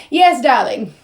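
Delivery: highfalutin British accent. Shown as a demonstration. Showing viewers the accent, highfalutin British. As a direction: put on a posh, highfalutin British voice. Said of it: "I also do a British accent a lot".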